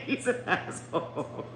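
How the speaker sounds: quiet, tailing-off insult. Real, not acted. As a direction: let it drop softly after the laugh. First, muttered take after laughing.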